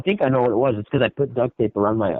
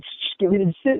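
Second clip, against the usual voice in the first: higher, put-on junkie voice; crackhead voice; 8 semitones higher than usual. Joking to a friend about craving salt packets, put-on junkie voice. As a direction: play a desperate addict grabbing salt.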